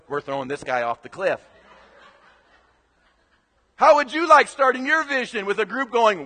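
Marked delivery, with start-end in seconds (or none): 0.1-1.4 huddled plotting. Retold or imitated. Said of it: "gets in a huddle in the corner and goes".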